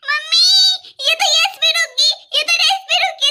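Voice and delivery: high panicked calling for mummy; frightened cry. Acted. Girl sees the pencil stop on yes, high panicked cry. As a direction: cry out high in sudden fear.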